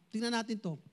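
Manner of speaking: usual speaking voice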